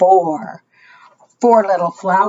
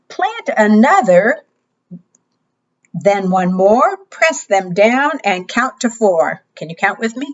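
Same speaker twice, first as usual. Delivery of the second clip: bright, sing-song storytime voice; kids show host. Acted. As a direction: read it like a preschool teacher. Reading interactive book to children.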